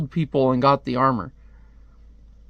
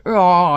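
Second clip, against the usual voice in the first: loud "oh" of pain; pained cry; 4 semitones higher, 6 dB louder than usual. Acted. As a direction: imitate a character crying out in pain. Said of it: "He's like".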